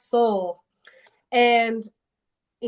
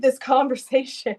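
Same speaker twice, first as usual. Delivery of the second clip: laughing; 2 semitones higher than usual. Real, not acted. Laughing at her own inconsistency.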